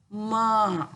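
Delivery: "Ma." said loudly as one syllable; loud model syllable "Ma."; Tamil letter sound. Shown as a demonstration. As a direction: announce "Ma." firmly as the model. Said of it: "satu huruf".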